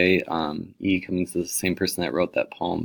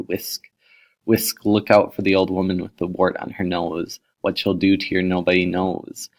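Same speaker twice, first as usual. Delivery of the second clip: lightly hammed-up reading of a spooky nonsense poem; a teacher reads a goofy poem to the class, mildly playful; 3 dB louder than usual. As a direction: relish the silly sound words, slowing on some lines. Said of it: "It'll sound kind of ridiculous as I do it".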